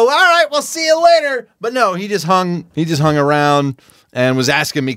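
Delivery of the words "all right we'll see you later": high, bright wrap-it-up tone; polite brush-off. Retold or imitated. Wanting to get rid of a chatty neighbor, bright brush-off. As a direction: cheerily try to end the chat. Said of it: "kinda wanting to go".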